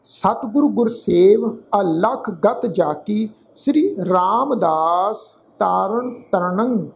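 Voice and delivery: slow, measured chanting recitation of gurbani; ਹੌਲੀ ਸ਼ਰਧਾ ਭਰਿਆ ਪਾਠ; scripture recitation. Acted. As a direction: recite each word slowly and devoutly.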